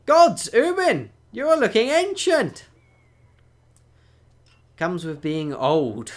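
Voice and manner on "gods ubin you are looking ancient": loud teasing Norse greeting; hearty greeting. Acted. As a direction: boom a welcome to an old friend. NPC loudly greeting old friend.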